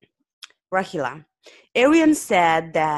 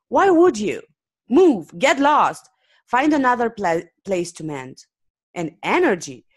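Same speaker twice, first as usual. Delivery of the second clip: lost composure; 3 semitones higher than usual. Acted. Owner ranting at Arian to get lost, heated. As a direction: build a fed-up outburst. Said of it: "has completely lost his composure".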